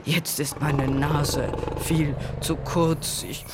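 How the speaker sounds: slow, halting words, climbing high at the end; gasping elephant. A narrator's reading. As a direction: struggle for air between words. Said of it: "keuchte Elefant".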